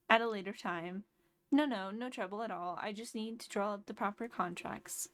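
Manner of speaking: lightly voiced friendly salesman; cheerful shopkeeper voice. Voicing Tom Nook's dialogue.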